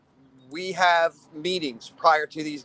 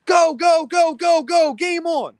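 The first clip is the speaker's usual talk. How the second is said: retold shout, much higher and louder; imitating admins yelling; 11 semitones higher, 6 dB louder, slower than usual. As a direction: bark the start call like a frantic admin. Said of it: "The admins go".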